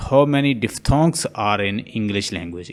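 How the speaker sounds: how many diphthongs said very slowly, word by word; slow teacher read. Shown as a demonstration. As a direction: spell it out slowly for the class.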